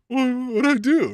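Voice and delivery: hammed-up hurt confusion; bewildered wrestler. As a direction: play the abandoned man. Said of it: "he's left alone like".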